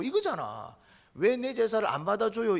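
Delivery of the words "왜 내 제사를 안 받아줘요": a loud, high, indignant protest; indignant complaint. Retold or imitated. Cain protests to God, loud and indignant. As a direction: Cain demanding why his offering was refused.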